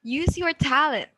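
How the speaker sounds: "Use your talent" lifted high, then falling at the end; rising-falling intonation. Shown as a demonstration. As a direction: model a statement tune that drops on "talent". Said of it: "moves from normal to high and then goes".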